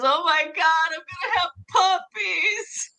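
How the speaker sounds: high, wailing sob, hammed up; the joke's crying woman, sobbing out the punchline; mock crying wail. Pregnant woman wailing to her doctor, hammed-up sobbing. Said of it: "The woman's just crying, and she goes".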